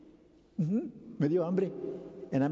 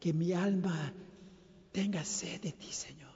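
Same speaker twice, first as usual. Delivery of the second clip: hushed hymn line; 3 semitones lower, 5 dB quieter than usual. Shown as a demonstration. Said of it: "le cantamos".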